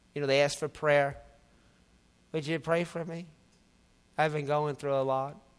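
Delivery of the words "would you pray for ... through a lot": grudging, lifeless, flat, soft and unenthused delivery. Mimicking people who ask for prayer with no enthusiasm, imitating a flat, unenthused request. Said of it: "ask with no enthusiasm whatsoever".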